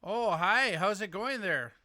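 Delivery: lightly mocked Upper Midwest accent; mocking accent. Host ribs caller about his accent, mock Midwestern accent. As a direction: poke fun with an imitated Midwestern accent. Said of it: "Are you making fun of my accent there".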